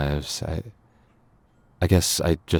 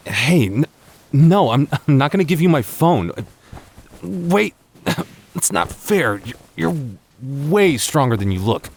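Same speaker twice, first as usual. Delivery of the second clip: high, breathless protest, laughing through it; playful struggle; 9 semitones higher, 3 dB louder than usual. Acted. Wrestling over the phone, a high laughing protest. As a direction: fight her off and laugh.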